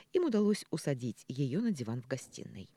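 ordinary delivery

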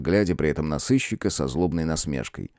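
ordinary delivery

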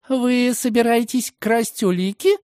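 put-on high, slow, shocked girl's voice; gasping shock. Girl shocked at his plan, high gasping question. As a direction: gasp it out in disbelief. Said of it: "ахнула девушка".

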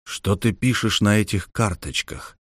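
grim, subdued question; gloomy. Acted. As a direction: ask it darkly. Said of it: "мрачно спросил Иван".

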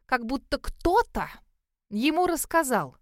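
кто-то pressed, slow and pointed; pointed emphasis. A narrator's reading. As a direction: lean hard on кто-то. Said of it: "я произнесла с нажимом".

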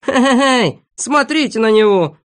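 high, loud mocking laugh; giggling shout. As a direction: jeer while giggling. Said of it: "закричал Сиропчик, хихикая".

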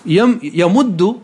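slowly sounding out يمد; slow demo. Shown as a demonstration. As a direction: drag يمد out syllable by syllable. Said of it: "أسقطنا الحركة من الأولى وأدغمنا".

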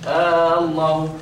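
slow "آه الله", first a stretched; wrong added alif. Shown as a demonstration. Teacher showing how the word gets changed, long first vowel. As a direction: drag the opening of "آه الله" into a long aa. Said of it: "كده زودت ألف".

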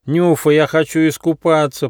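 high whining platypus plea; whiny voice. A narrator's reading. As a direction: whine it like a spoilt child. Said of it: "плаксивым голосом попросил утконос".

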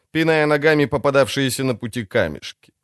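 usual speaking voice

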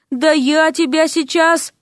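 put-on slow, menacing old-man threat; threatening old sorcerer. Koshcheev threatening the prince, slow menacing old-man threat. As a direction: lunge at him with your voice.

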